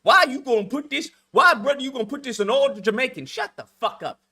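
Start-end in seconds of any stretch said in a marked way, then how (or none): 0.0-3.3 mocking complaint. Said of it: "fucking Jamaicans leaving comments".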